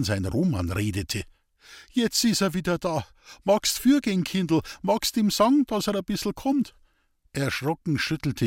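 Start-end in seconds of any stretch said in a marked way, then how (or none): 1.9-6.7 put-on higher, pleading old man's voice; gently urging the girl to go; eager old man. Old man asks Elisabeth to fetch his son, higher and eager.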